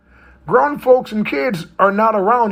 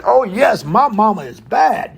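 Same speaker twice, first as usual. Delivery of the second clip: gleeful mock boast, higher-pitched; retold triumph; 4 semitones higher, slower than usual. Boy cheers his mom's win over the school, gloating. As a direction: relish it like a proud kid.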